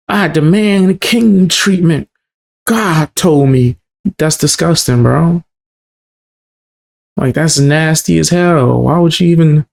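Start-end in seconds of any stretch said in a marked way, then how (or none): 0.1-3.8 lightly raised mock self-righteous voice; mock entitled. Host mocks a singer demanding holy treatment. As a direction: parody a holier-than-thou demand. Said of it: "You think God told you".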